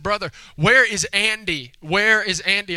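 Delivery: a hint of a questioning child; lightly voiced little girl. Little girl asks her brother about Andy, lightly voiced.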